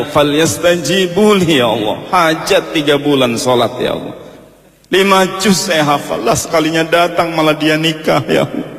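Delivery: hammed-up heartbroken wail to God; mock crying lament. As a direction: whine out a wounded prayer. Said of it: "dia nangis".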